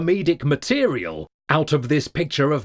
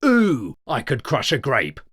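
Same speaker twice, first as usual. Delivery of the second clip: exaggerated catchphrase. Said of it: "didn't say".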